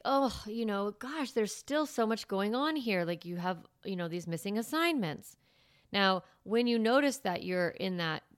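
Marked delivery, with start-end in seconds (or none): 0.1-5.4 whiny complaining voice. Shown as a demonstration. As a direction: put a whine into it. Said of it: "a whiny voice to it".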